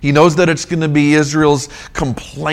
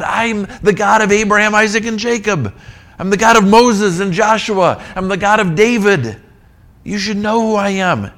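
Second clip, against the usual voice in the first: God's proclamation; 7 semitones higher than usual. Acted. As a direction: proclaim it with full authority. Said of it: "God says".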